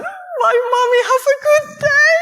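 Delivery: put-on very high, sing-song child voice; a little girl saying goodbye to her mother, high and sweet. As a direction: chirp it like a happy small daughter. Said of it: "she's going".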